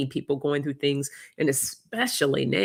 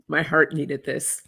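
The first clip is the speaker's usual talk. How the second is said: emotional, with a small laugh breaking through; real welling-up, laughed through; getting emotional. Real, not acted. Host thanking viewers as the heart needed it, emotional. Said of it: "I'm gonna get all emotional again".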